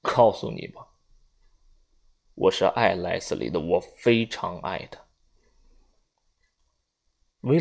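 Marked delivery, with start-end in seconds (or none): 0.0-5.0 smiling, tender. A narrator's reading. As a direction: savour each word about his love. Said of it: "他微笑着说".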